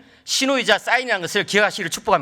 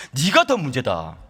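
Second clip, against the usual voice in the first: slow, lower-pitched verdict; voice of God; 5 semitones lower, slower than usual. Retold or imitated. God answering a complaining father, matter-of-fact. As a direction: pronounce it slowly as God answering. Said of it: "하나님께서 저한테 이렇게 쉽게 말씀하시는".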